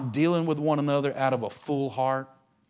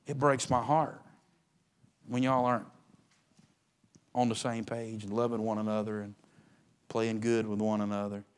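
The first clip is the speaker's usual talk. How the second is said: tearful daddy; 4 semitones lower, 7 dB quieter than usual. Retold or imitated. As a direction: speak softly as a heartbroken father to his kids. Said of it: "with tears in his eyes say".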